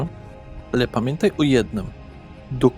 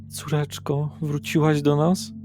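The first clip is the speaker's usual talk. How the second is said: tearful mother; 4 semitones higher, slower than usual. Acted. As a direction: lift the voice gently, a touch of tearful hope. Patrzy na ciebie przerażona, zapłakana.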